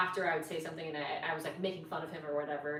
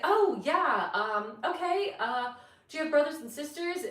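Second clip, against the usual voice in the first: imitating the date; 9 semitones higher, 6 dB louder than usual. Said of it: "and he's like".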